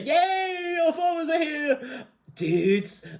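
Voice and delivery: very high, squealing cheer; imitated excited daughters. Daughters reunited with their fathers, mock high squeal. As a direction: squeal it high like thrilled kids.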